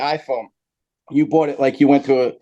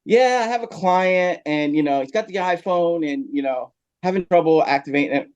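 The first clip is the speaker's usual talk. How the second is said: imitating the caller; 4 semitones higher than usual. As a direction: lightly play the guy on the phone, a bit higher and unhurried. Caller asking about client's iPhone.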